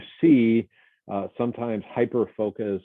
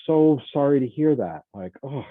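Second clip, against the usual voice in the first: higher, caring voice of a colleague who just heard bad news; mildly acted heartfelt sympathy, pitched up; sympathetic concern; 3 semitones higher than usual. Comforting a crying coworker about her mother, sympathetic. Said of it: "respond in kind".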